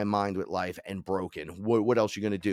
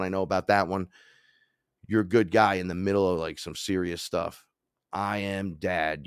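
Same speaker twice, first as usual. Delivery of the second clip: reassuring god. Retold or imitated. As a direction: comfort him like a father. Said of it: "He said".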